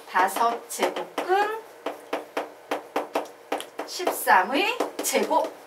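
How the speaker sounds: very slow "다섯 제곱근십삼의 제곱" with long pauses; demonstrated slow reading. Shown as a demonstration. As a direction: spell out "다섯 제곱근십삼의 제곱", halting before "십삼의". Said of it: "요런 식으로 읽는 거예요".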